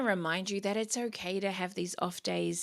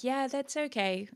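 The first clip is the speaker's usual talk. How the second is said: higher-pitched, easygoing reassurance; easygoing acceptance; 6 semitones higher than usual. Acted. Commuter accepting a little bit of traffic, easygoing acceptance. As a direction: shrug off the hold-up. Acting out calm reaction to traffic.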